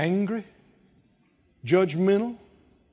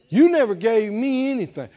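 voice of unbelief; 4 semitones higher, 5 dB louder than usual. Acted. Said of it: "Do you hear the evil voice of unbelief?".

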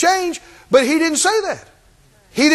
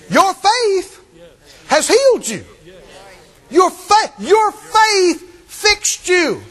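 Jesus speaking; 7 semitones higher, slower than usual. Acted. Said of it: "Jesus looked at her. He said".

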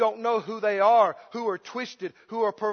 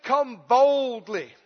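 bold quote; much slower than usual. Acted. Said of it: "He said".

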